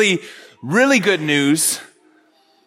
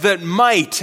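emphasize the word "might", holding it a moment; weight falls on "might"; stress on might. Real, not acted. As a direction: lean on "might", set apart at the end. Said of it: "I just want to emphasize that word".

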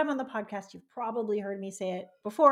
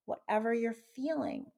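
self-soothing. Shown as a demonstration. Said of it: "give yourself a hug and say".

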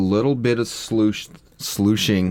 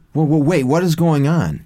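concerned reading; 5 semitones higher than usual. Shown as a demonstration. Cohost showing how the line should sound, higher and alarmed. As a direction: sound worried her dad is there. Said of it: "like her going".

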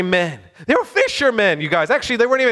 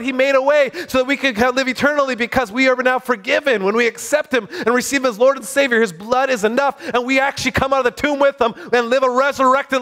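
excited preaching; 3 semitones higher than usual. Real, not acted. Preacher telling believers Jesus made a way, excited preaching. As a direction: proclaim it with rising excitement. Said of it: "I'm getting excited here".

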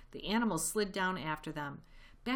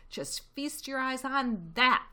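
excited cry; 8 semitones higher, 6 dB louder than usual. Acted. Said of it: "cried Mister Fox, dancing up and down".

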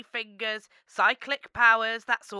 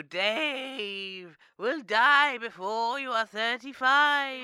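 mystic prophecy voice; slower than usual. Pretend. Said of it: "let me consult the spirits".

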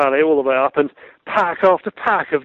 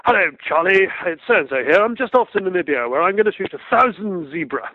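lightly voiced breezy phone caller, slightly higher; higher-pitched greeting from a lightly imitated caller; second caller; 3 semitones higher than usual. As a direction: imitate a caller announcing himself. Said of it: "Phone rang again".

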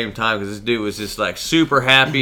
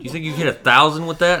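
high, louder gullible question; feigned amazement; 7 semitones higher, 6 dB louder than usual. Retold or imitated. Customer trolling the clerk about distance, mock-amazed. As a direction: play the wide-eyed newbie.

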